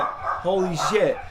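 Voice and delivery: blown away by the professor; a loud, amazed realization; excited awe. Retold or imitated. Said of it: "And then I went".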